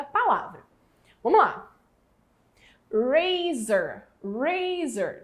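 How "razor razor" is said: razor said twice, clear and slow as a model; model word. Shown as a demonstration. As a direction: say razor so the class can repeat it. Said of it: "esse R tem som de consoante".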